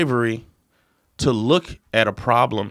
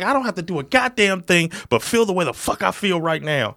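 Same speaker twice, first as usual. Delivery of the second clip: worked-up retort; 5 semitones higher than usual. Retold or imitated. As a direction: re-enact a mildly heated comeback. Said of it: "you're getting worked up".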